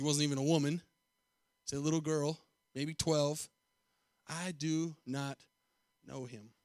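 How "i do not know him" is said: hushed denial. Acted. Preacher voicing Peter's denial.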